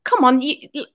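high, exasperated are you serious; high disbelieving cry; incredulous outburst. Retold or imitated. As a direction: throw up your hands in disbelief. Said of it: "I actually lost my cool".

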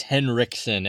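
"Henriksen" pronounced with no d sound; correcting the name. Shown as a demonstration. Co-host corrects a botched actor's name, "Henriksen" without the d. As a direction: say "Henriksen" as Hen-rik-sen.

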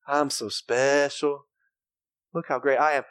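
a hint of a vain show-off; mock self-adoring voice. Mocking a self-adoring person.

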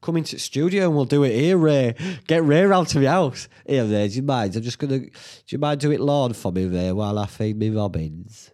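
inviting Ray round, hamming up the eager fan; eager pitch to a guest. Pretend. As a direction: sell it to him like an overexcited host. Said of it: "I'll give 'em option".

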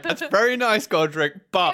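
high, loud, condescending tone; patronizing adults. Retold or imitated. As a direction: humor him like a busy grown-up. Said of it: "everyone's just like".

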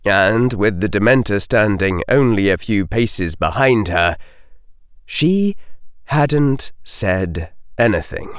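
plain reading voice

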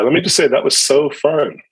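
dry mock enthusiasm, stress on "so fun"; sarcastic. Real, not acted. Pastor recalling relocating during covid, sarcastic. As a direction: say it as if it had been a treat, meaning the opposite. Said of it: "I sense sarcasm".

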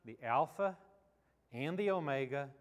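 measured reading with long pauses between phrases; Scripture reading. Acted. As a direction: read the verses solemnly, letting each phrase stand. Reads scripture aloud to congregation.

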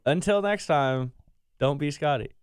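Scotty sign-off. Retold or imitated. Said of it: "you wanna try one?".

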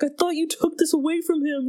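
high-pitched retold exasperation; high, incredulous imitation of a friend; exasperated friend. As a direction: voice a friend's mock-indignant complaint.

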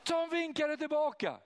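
high, loud gleeful repeat; excited. Real, not acted. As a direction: ring it out high in delight. Repeat of punchline.

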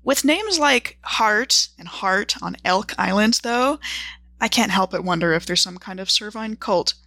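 measured journal narration with deliberate pauses between entries; journal reading. Acted. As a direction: read your travel diary aloud, item by item, with dry understatement. Reads out her character's journal.

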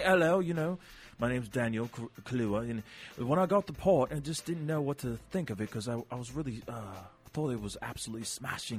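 put-on soft, understated British accent; mild-mannered British interview voice; Daniel Kaluuya British accent. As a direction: speak quietly and politely in a British accent. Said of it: "like Daniel Kaluuya".

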